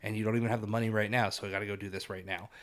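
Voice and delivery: low, soft imagined apology; acting out a reluctant apology, voice dropped low; mildly remorseful. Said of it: "that little bit of remorse".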